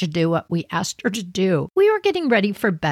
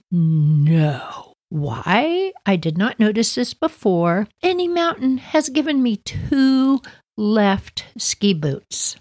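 dismayed disbelief; slower than usual. Retold or imitated. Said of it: "I'm like".

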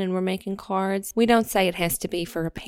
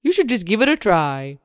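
worm puppet voice; 3 semitones lower than usual. Acted. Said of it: "it's a hand puppet".

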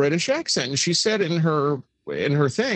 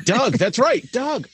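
psychic hotline; 9 semitones higher, slower than usual. Retold or imitated. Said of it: "psychic on the other end".

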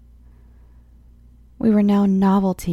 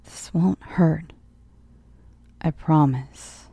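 creepy soothing doctor; 2 semitones lower, slower than usual. A narrator's reading. Doctor soothing before the needle.

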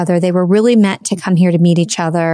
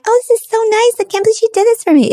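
much higher, fast mock gushing thanks; faster than usual. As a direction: play the delighted grateful guest. Imagined gushing thankful reaction.

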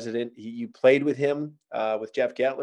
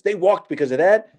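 mock disbelief; 6 semitones higher, 5 dB louder than usual. Club owner's disbelief acted out.

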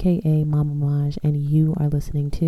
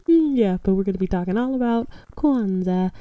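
laughing; 3 semitones higher, faster than usual. Real, not acted. Still laughing after her slip.

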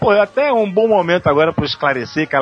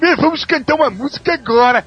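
cheesy announcer; 10 semitones higher, 4 dB louder than usual. Retold or imitated. Mocking old dubbed films.

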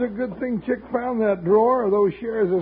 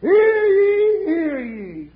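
town crier; 5 semitones higher, slower than usual. Shown as a demonstration. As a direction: call out to the crowd like a crier. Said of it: "I'm just about the best auctioneer".

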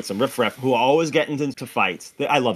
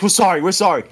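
higher, louder mock pleading; frantic apology; 7 semitones higher, 6 dB louder than usual. Friends begging the cops' pardon, mock frantic plea. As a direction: re-enact pleading with the police.

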